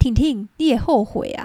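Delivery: put-on Mandarin with a partly Taiwanese accent. Quoting her grandfather on the phone, Taiwanese-accented Mandarin. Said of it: "用这种就是半台语口音的那种国语".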